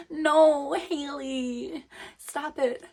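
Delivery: high-pitched embarrassed protest; squeaky flustered "stop it"; flustered high boy voice. Acted.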